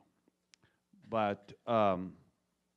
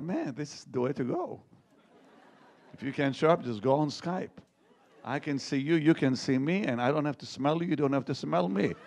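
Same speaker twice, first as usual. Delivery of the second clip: higher, louder, laughing through the quip; laughing joke; 6 semitones higher, 5 dB louder than usual. Retold or imitated. Preacher jokes to his audience about Skype, laughing. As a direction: chuckle it out like a punchline.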